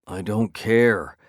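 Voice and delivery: slow, grumbling I don't care; grumble. Acted. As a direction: drag it out, grumbling. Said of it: "I grumble".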